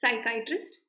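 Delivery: psychiatrist said sai-KAI-trist, ending in short "trist"; correct pronunciation. Shown as a demonstration. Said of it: "check the pronunciation". (psychiatrist का सही उच्चारण, साइ-काइ-ट्रिस्ट)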